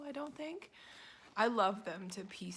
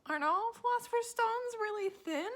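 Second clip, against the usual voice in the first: much higher, louder, genuinely puzzled; incredulous question; 13 semitones higher, 5 dB louder than usual. Retold or imitated. Answering her student about the thin book, much higher in disbelief. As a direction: ask it like you can't believe they aren't all thin. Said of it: "And I was like".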